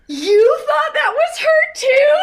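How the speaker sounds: a stunned, delighted realisation; disbelieving wife's laughing question to her husband; amazed. Retold or imitated. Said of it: "And I was like".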